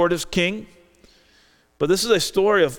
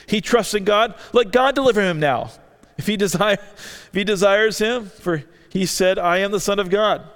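mocking; 3 semitones higher than usual. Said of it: "And so they mocked him".

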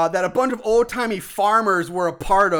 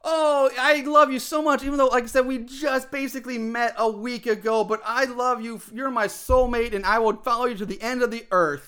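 higher, gushing sweet-talker; mock lovesick suitor; 4 semitones higher than usual. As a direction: ham up the smitten boyfriend. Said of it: "saying that wherever she goes".

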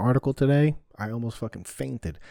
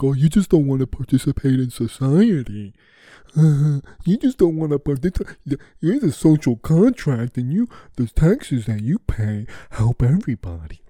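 loud, scornful impression of a scold; mocking preachy voice; 4 semitones higher, 9 dB louder than usual. Mocking people who call taxation fair, loudly. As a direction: sneer it like a self-righteous critic. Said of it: "people are like".

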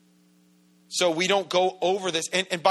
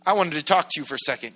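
called out higher and brighter, then hurried; friendly call-over; 4 semitones higher, 4 dB louder than usual. Retold or imitated. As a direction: wave him over cheerfully. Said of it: "he's like".

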